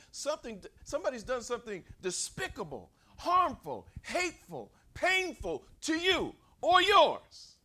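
preaching at full force. Acted. Preacher stirring the congregation's hurt, building to a shout. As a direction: build the congregation's grievance to a peak.

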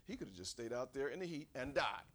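usual speaking voice

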